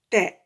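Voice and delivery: "Ta" released from the teeth with the mouth opening; open-mouthed release. Shown as a demonstration. Teacher shows the mouth opening, careful demo. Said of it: "Et on ouvre la bouche".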